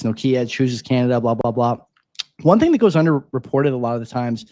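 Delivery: slight lisp from a retainer; wearing a retainer. Real, not acted. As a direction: talk around a retainer. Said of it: "as I stick my retainer back in".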